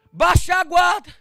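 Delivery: high, loud command; shouted exhortation. Real, not acted. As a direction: drive it home with a shout.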